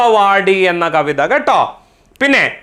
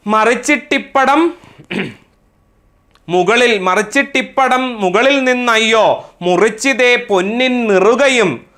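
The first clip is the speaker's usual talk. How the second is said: poem recitation; 3 semitones higher than usual. Acted. Teacher reciting a mother's comforting verse to class, poem recitation. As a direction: recite the verse in a measured, singsong cadence.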